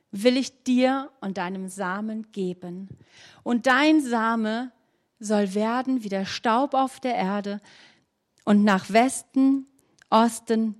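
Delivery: slow, measured Bible reading with long pauses; solemn scripture reading. Acted. Preacher reads Jacob's dream to the congregation, slow and solemn. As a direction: read the promise to the congregation like holy words.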